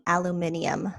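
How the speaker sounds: "aluminium" with five syllables, softly; British pronunciation. Shown as a demonstration. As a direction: say "aluminium" as al-yoo-MIN-ee-um. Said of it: "British people say".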